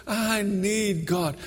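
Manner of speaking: high, slow, drawn-out plea; pleading. Retold or imitated. Preacher voicing the crying man at the alley, pleading. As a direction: mildly imitate a man desperate for God.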